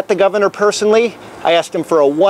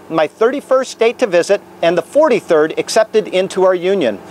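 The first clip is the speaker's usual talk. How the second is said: earnest preacher's prayer, lifted and measured; solemn public prayer. Acted. Minister praying aloud over Idaho from the Capitol steps, solemn prayer. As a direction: pray it over the state like a minister.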